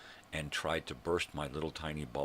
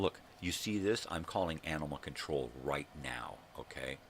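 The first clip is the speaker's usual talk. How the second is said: mock confrontation. Confronting neighbor, calling animal control.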